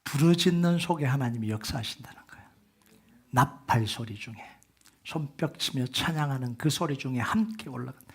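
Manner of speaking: soft whispered preaching; hushed preaching. Acted. Pastor suddenly quiet before the church, hushed. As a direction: drop to a near whisper for weight.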